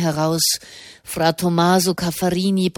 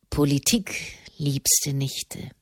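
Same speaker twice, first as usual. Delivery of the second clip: evasive; 4 semitones lower, 5 dB quieter, slower than usual. Acted. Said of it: "wich der Papst aus".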